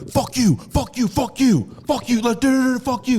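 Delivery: high, loud demon voice in repeated bursts; imitating a girl taken over by a demon; possessed girl. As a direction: spit out curses like a movie possession. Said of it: "it was not her voice".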